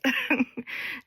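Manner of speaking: brief light chuckle; short amused laugh. Real, not acted. Chuckle after praising timestamps.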